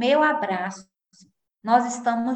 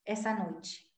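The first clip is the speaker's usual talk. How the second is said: soft, quiet retelling of the voice message; hushed confiding mother; 6 dB quieter than usual. Retold or imitated. A mother's audio message to Kaline, quiet and hushed. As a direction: murmur it like a sad confession. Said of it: "falando assim".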